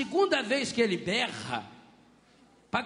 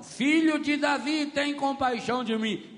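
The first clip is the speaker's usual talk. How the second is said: higher mock cry for mercy; crying out louder; 5 semitones higher, 3 dB louder than usual. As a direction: shout Filho de Davi out. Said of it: "ele gritava mais alto".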